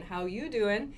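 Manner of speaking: rising flirty stress on "you"; a hint of the pickup line, you lifted; Joey from Friends. Teacher repeats the Friends line in that tune. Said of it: "in that intonation".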